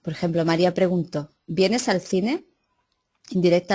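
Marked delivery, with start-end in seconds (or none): 1.5-2.5 "¿Vienes al cine?" lento, subiendo al final; pregunta directa. Shown as a demonstration. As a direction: pregunta de ejemplo dicha despacio con subida final. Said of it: "la pregunta se hace directamente". (pregunta directa lenta con entonación ascendente)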